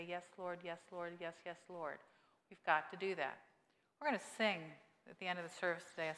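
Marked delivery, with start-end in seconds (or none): 0.0-2.0 softly murmured yes Lord, prayerful; hushed yes Lord. Retold or imitated. Congregation answering Jesus, a soft murmured prayer. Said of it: "And we say".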